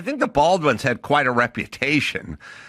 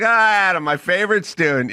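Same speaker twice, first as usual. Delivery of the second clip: a hint of a warm old teacher, higher; fond greeting; 5 semitones higher than usual. Old teacher greeting former student, lightly warm. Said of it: "She's like".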